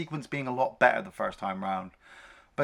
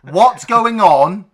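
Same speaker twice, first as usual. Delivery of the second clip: slow, high mocking cop voice; 8 semitones higher, 12 dB louder, much slower than usual. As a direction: drawl it up high and loud. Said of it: "walks up to her and goes".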